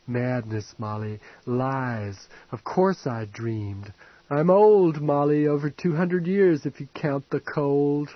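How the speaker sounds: a dying lord rambling at the intruder, lightly voiced; drunk rambling aristocrat. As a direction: savour every word of your own decline. Old man rambling voiced.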